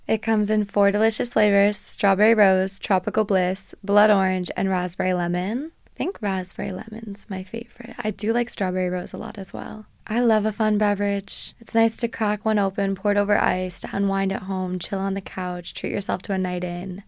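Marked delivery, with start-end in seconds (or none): 0.1-5.7 bright, punchy sponsor read; upbeat ad read. Acted. Host reading a sponsor ad to listeners, upbeat and punchy. Podcast ad read over music. 10.1-17.0 bright, punchy sponsor read; upbeat ad read. Acted. Host reading a sponsor ad to listeners, upbeat and punchy.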